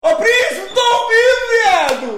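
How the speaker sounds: very high, loud excited yell; thrilled shout to a friend on the phone. Real, not acted. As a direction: greet him at the top of your lungs. Friend joins call, excited greeting.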